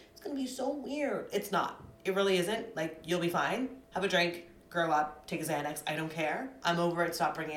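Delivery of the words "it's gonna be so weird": mocking whine. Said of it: "one more person say".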